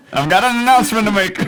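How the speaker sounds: high squeaky announcer voice; old newsreel announcer. Acted. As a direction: read it like a vintage newscast. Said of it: "The newscast for nineteen fifty-nine".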